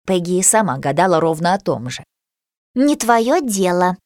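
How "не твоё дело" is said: snapped. Acted. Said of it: "отрезала Хлоя".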